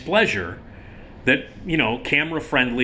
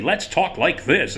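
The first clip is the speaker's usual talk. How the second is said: slick TV presenter; 5 semitones higher, slower than usual. Shown as a demonstration. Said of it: "like, T V friendly".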